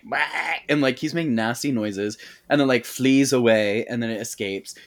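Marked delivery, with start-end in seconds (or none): 0.0-0.2 monster bah. Retold or imitated. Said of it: "it's like".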